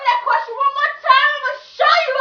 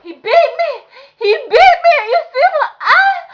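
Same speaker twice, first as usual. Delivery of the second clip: sobbing, crying out; 5 semitones higher, 4 dB louder than usual. Acted. Mom crying after beating.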